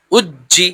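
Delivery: "উজ্জি" with a firm doubled জ; forceful push. Shown as a demonstration. Teacher modelling for practice, firm doubled consonant. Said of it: "এইভাবে practice করবেন".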